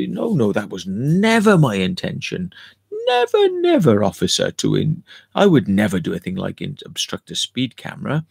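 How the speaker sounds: lightly acted denial to a police officer; hammed-up excuse to the police; mock innocent protest. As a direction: plead innocence with exaggerated leaps on "never". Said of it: "kind of tell the police why".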